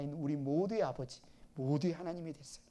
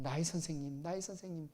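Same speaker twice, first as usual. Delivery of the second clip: tender reply; 7 dB quieter than usual. Acted. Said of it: "다정함으로 지금 대답하고 있습니다".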